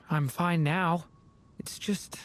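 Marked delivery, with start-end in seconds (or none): 1.6-2.2 barely voiced, trailing whisper. Real, not acted. Telling friends about being forgotten, whispered. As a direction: let it fall to a breath.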